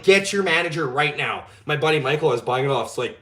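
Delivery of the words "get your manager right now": slow, demanding Karen voice, a bit louder; a mild Karen at the bank counter demanding the manager, slowly. Retold or imitated. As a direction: play the entitled customer demanding the boss. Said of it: "Never once in my life have I been Karen".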